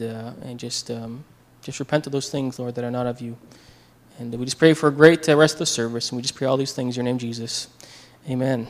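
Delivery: earnest spoken prayer, softening toward the amen; opening prayer. Real, not acted. Pastor praying to the Lord before his message, earnest prayer.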